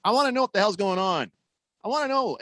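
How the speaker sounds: frustrated outburst. Real, not acted. Radio host venting at the team, a frustrated outburst. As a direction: vent the frustration, pushing hard. Frustrated fan demands answers.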